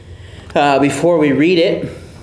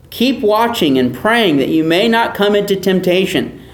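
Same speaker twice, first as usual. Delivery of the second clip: scripture reading; 3 semitones higher than usual. Acted. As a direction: read the passage aloud to the class. Reads scripture aloud to congregation.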